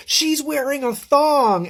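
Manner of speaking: high, drawn-out mock scream; imitated boy's scream. Boy yelling out at a birthday party game, mock scream. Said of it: "one of the boys screams".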